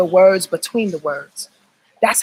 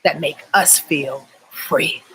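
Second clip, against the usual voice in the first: meditative echo; 5 semitones lower, slower than usual. Shown as a demonstration. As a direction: let the phrase sink in slowly. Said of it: "That's a meditation right there".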